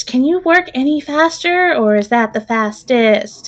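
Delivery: the halfling pushing for speed, then fading to a mutter; nervous halfling. Acted. Halfling answers rogue mid-fight.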